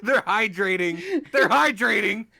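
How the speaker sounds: laughing. Real, not acted. Laughing so hard it cries.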